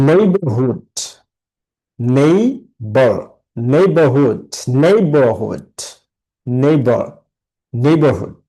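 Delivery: নেইবারহুড measured out as নেই-বার-হুড; broken into syllables. Shown as a demonstration. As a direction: model নেইবারহুড part by part, leading with নেই. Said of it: "ভেঙে ভেঙে দিয়েছি, যেমন". (নেইবারহুড ভেঙে ভেঙে বলা)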